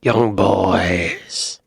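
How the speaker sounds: Bristol accent imitation with a rising end. Echoing the clip's Bristol man, in a Bristol accent. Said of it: "It's fun to talk like that".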